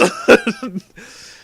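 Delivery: high, loud burst of laughter; real laugh. Real, not acted. Reader laughing at her own story, real laugh. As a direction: crack up out loud.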